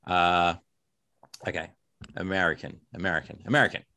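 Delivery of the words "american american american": practising an American accent. Shown as a demonstration. Author warming up before reading from the novel, American accent. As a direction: try out an American pronunciation of the word. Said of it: "I have to talk slowly in American".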